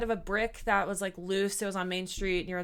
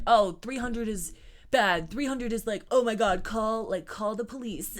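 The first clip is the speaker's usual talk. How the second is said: mock panic. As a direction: play them as clueless and overexcited. Mocking their panicked water readings.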